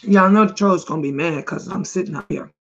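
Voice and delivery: talking through a mouthful; words around a bite of pizza; mouth full of food. Real, not acted. Vlogger chatting to viewers while chewing pizza. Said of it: "talking with my mouth full of food".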